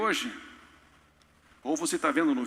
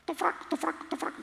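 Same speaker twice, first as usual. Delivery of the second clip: much higher, clucking like a guinea fowl; mock guinea hen cluck; 12 semitones higher, 5 dB quieter than usual. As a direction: squawk it like a hen. Hen-like mocking chant. (imitando galinha-d'angola)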